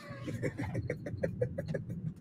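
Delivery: quiet, high, breathy laugh. Real, not acted. Host amused by his own prediction about Shannon Sharpe, quiet laugh. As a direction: laugh softly to yourself.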